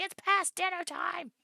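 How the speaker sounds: high, loud, slow mock dog voice; dog's complaint. Streamer voicing her dog demanding dinner, mock whine. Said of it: "He's like".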